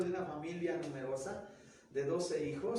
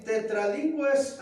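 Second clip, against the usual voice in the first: tetralingües said slowly, syllable by syllable, higher and louder; emphatic tetralingües; 6 semitones higher, 8 dB louder, slower than usual. Shown as a demonstration. Teacher stressing tetralingües to the class, slow and loud. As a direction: spell out tetralingües slowly and loudly. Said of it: "porque les digo así".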